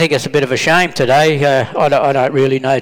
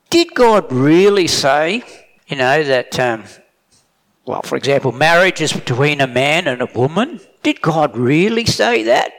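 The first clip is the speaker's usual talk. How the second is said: sly doubting devil. Retold or imitated. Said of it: "the devil uses the same sort of thing".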